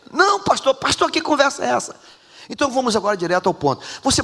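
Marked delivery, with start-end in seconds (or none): 0.1-2.0 indignant protest. Acted. Husband protests again.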